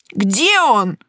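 stunned, drawn-out character voice; forced-out question. A narrator's reading. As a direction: squeeze it out in dawning alarm. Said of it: "выдавил кто-то из парней".

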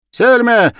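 high loud shout; children shouting. A narrator's reading. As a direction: yell the answer. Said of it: "закричали ребята".

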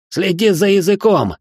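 high, angry bark; young master snaps at the captive. A narrator's reading. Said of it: "рявкнул на меня парень".

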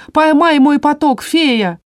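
high, loud yell. A narrator's reading. House spirit yelling to the fairy to catch the flow. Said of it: "В вопль Моти".

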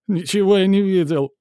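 high, loud insistence; bloodied manager yelling he saw nothing; shrill denial. A narrator's reading. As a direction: yell the denial. Repeated denial, louder.

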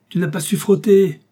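loud, high angry shout. Acted. General scolds Ossip for poor scrubbing, angry shout. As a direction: bark it at the servant. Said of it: "cria-t-il".

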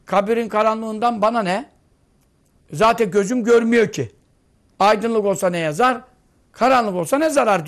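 preacher mimics a congregant who shrugs off the dark grave, scoffing; mock objector. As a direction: play the careless listener brushing off the darkness of the grave. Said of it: "E sen şimdi diyorsun ki".

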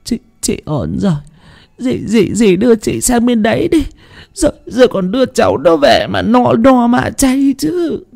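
high, stammering voice still catching on sobs; choked sobs. A narrator's reading. Mother asking her sister to take her, choked sobs. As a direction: pull yourself together through hiccupping tears. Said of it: "nấc lên nghẹn ngào".

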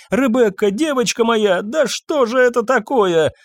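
high, frightened plea over her daughter; anguished cry. Acted. Mother kneeling by her fainted daughter, frightened cry. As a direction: cry out to the fallen girl in alarm.

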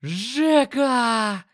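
loud high call across the street; roaring shout. Acted. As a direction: bellow the name from far off. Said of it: "услышал уже знакомый рёв". (громкий радостный рёв)

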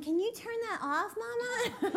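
put-on half-hearted teenage whine from bed; lightly voiced whiny daughter. Daughter begging her mother to switch off the alarm, mild mock whine. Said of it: "and Cass is going".

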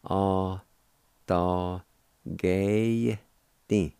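"Ah, da, Gay thing" broken into separate syllables; Cherokee word demo. Shown as a demonstration. Teacher to listeners, "Ah, da, Gay thing" syllable by syllable. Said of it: "like this".

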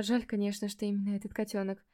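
ordinary delivery, nothing marked

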